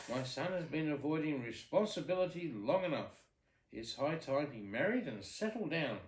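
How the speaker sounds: a lightly voiced fretting king. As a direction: grumble like a worried old king. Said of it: "the king was fretting".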